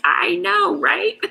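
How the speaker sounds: high, loud comic reply; playful mock agreement. Host imagines answering her best friend's teasing, loud playful agreement. Acts out own sheepish reply.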